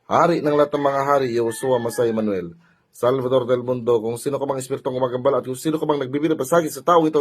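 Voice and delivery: steady, run-on chanted prayer; ritual invocation. Real, not acted. Healer calling on God to summon a spirit, ritual invocation.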